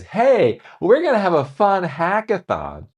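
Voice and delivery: high, upbeat mock announcement; cheery boss voice. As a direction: sell the fun event brightly. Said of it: "If Mark Zuckerberg says".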